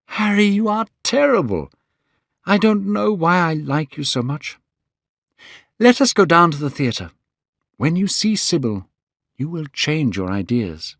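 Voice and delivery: put-on young Dorian Gray. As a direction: lift the voice for a young man in love.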